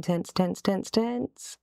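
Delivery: repeated words stepping up in pitch; building tension. Real, not acted. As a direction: urge the squeeze tighter, rising to the last word. Coaching calf squeeze.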